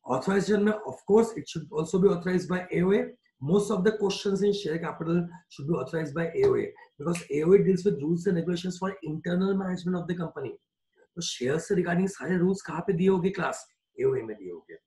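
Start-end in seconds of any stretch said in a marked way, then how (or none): 0.1-10.6 each word spaced out slowly for note-taking; slow dictation. Shown as a demonstration. Teacher to class, dictating a definition slowly.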